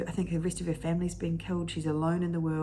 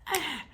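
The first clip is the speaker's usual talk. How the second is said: reaction noise; 10 semitones higher than usual. Acted. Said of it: "that you just go".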